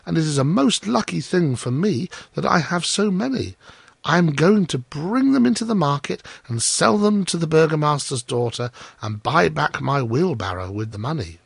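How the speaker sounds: eager, innocent explaining; Hans. Acted. Hans telling the miller his market plan, hopeful.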